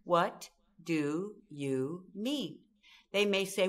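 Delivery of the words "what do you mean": calm question. Shown as a demonstration. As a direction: ask "What do you mean?" calmly, drawing out each word. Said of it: "We come back with these four words".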